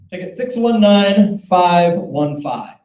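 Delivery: slow, drawn-out number call; raffle caller. Real, not acted. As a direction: call each digit out slowly.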